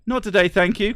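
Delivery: high, bright polite refusal; polite brush-off. Pretend. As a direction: cheerfully shut them down. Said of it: "perfectly polite".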